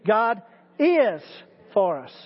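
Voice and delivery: "is" held up, "for us" dropped; stress on is. Shown as a demonstration. Preacher repeats the drill, stress on "is". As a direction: lean on "is" again. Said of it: "Let's do it again".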